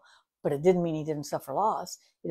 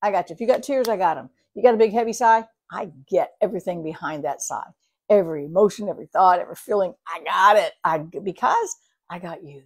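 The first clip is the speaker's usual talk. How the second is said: voicing God; 5 dB louder than usual. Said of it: "He just goes".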